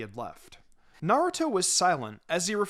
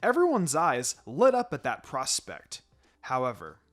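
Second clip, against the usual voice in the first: lightly voiced calm teacher, a touch lower; Kakashi's voice; 4 semitones lower than usual. Kakashi lays out training schedule.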